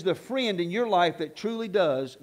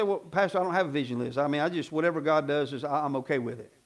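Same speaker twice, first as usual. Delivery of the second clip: mock meek excuse; 7 semitones lower, 4 dB quieter than usual. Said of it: "you say".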